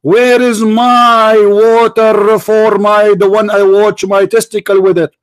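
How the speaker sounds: slow, drawn-out mocking quote; mock quotation. Debater quoting the prophet to needle caller, mockingly drawn out. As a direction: draw the words out in mockery.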